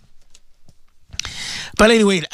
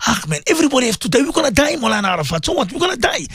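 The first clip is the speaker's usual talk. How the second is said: careless mock quote; 3 semitones higher, faster than usual. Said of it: "what's our statement".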